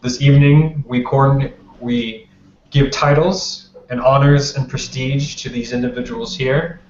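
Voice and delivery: measured formal welcome, spaced by pauses; lightly voiced ruler addressing a gathering; prince's public address. Kostas welcomes guests to the coronation gala, lightly acted formal address.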